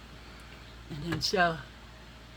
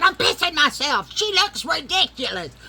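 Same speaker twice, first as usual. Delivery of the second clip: laughing hard; 9 semitones higher, 8 dB louder than usual. Retold or imitated. Wanda laughing her ass off.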